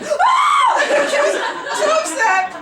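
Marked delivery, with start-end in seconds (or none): 0.0-1.1 put-on high shrieking child's scream; imitated child's shriek. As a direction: shriek like a scared little girl. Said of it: "she was like".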